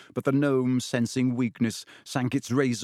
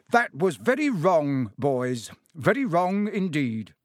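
stern; 2 semitones higher, 3 dB louder, slower than usual. Acted. Father feigns sternness.

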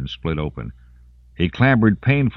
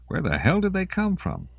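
panicked question; 13 semitones higher, 4 dB quieter than usual. Acted.

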